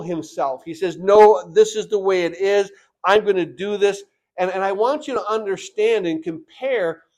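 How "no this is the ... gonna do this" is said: loud "No" from the stubborn king; a mild mock of the proud king refusing his people; defiant refusal. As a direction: dig in like a proud ruler. Preacher voices the defiant king.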